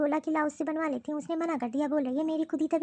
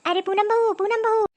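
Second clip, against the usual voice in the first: higher and louder call across the house; 5 semitones higher, 6 dB louder than usual. Acted. Sick mother-in-law calling daughter-in-law to make tea, loud call. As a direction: shout the name so she hears you upstairs.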